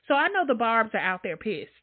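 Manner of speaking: normal talking voice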